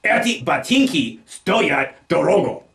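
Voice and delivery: "stoyat" stressed on its first syllable. Shown as a demonstration. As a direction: punch the opening syllable of "stoyat". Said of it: "Putting the stress on the first syllable".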